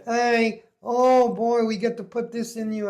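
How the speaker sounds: high, loud, gushing camp voice; mock camp nurse. Nurse to patient before inserting the tube, mock camp delight. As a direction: imitate an over-eager camp nurse. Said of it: "He was queer as a three dollar".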